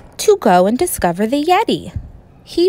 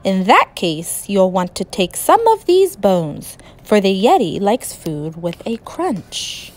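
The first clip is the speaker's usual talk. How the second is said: lightly voiced monster; 3 semitones lower than usual. Monster Betty advising George, in a lightly lowered monster voice. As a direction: speak as a grumpy but helpful beast.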